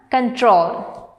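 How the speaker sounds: "control" with the weight on TROL; stress on second syllable. Shown as a demonstration. Teacher reading words to students, "control" stressed on TROL. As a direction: say "control" as con-TROL, falling at the end. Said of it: "stress on the second syllable".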